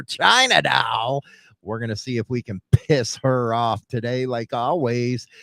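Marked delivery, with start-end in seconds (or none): 0.0-1.2 drawn-out shout. Acted. Host introduces cohort on air.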